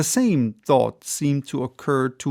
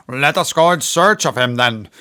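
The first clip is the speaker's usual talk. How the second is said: cried out; 5 dB louder than usual. A narrator's reading. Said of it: "cried the captain".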